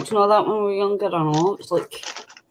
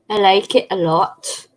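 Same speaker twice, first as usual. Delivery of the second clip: mild English accent. Shown as a demonstration. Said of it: "Is that your English accent?".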